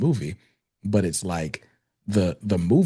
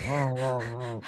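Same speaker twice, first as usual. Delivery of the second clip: imitated muffled rah-rah, trailing off softer; closed-mouth mumbled noise; 5 semitones higher, 6 dB quieter, slower than usual. Imitating the Tin Man for a co-host, muffled mumbling noises. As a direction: mimic sounds made with a barely moving mouth. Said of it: "not moving his mouth or anything".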